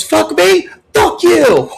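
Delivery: high, loud indignant shout; yelled comeback. Retold or imitated. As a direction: fire it right back. Umpire yells back.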